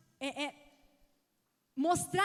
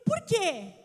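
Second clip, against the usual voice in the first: put-on child's question; 6 semitones higher, 9 dB louder than usual. Son's question voiced.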